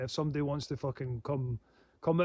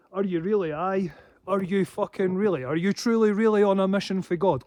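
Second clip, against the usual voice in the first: higher, louder sarcastic disbelief; scornful challenge; 3 semitones higher, 5 dB louder than usual. Real, not acted. Scoffing at attackers, loud and sarcastic. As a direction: needle them with each question.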